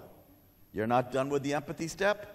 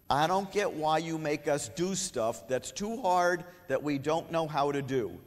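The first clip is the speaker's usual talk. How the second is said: put-on slow, higher kid complaint; frustrated kid; 3 semitones higher, slower than usual. Shown as a demonstration. Teacher playing a student who resents hard work, frustrated. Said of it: "the kid's gonna say".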